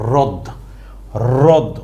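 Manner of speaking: রদ with no h sound; রদ, the হ silent. Shown as a demonstration. Teacher models হ্রদ as রদ. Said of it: "উচ্চারণ করব কি".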